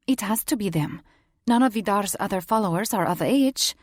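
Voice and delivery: put-on Romanian-accented shifter woman, insistent. Iana turns to Caesar and insists, in a Romanian accent.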